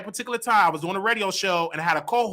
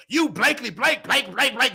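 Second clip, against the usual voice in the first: high-pitched mock swearing gibberish; retold cussing; 7 semitones higher than usual. Cussing out everybody at the house, high imitated rant. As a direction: rattle off stand-in curses, pitched up. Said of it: "Just cussing everybody".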